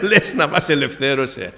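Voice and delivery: laughing. Retold or imitated. Wondering aloud if God freed them.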